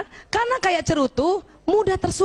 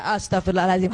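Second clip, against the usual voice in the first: lower, deeper husband's prayer for forgiveness; husband finally repents; 8 semitones lower, faster than usual. Retold or imitated. The preacher voices the husband finally saying his prayer for forgiveness, low and deep. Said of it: "yang kelima dia".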